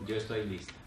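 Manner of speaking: soft, low, calm acceptance; dying mother, calm. Retold or imitated. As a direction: say it quietly, at peace. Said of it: "me dijo". (voz baja y serena de madre que acepta morir)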